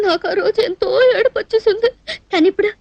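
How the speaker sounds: breaking into laughter; laughing. Acted. Woman finding an old misery funny now, laughing. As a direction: let giggles take over as you finish. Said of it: "ఇప్పుడు నవ్వు వస్తుంది".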